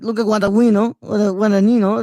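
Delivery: halting attempts at "Guadagnino"; stumbling Italian pronunciation. Shown as a demonstration. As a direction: stumble over "Guadagnino", restarting it midway. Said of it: "no, it's kinda hard".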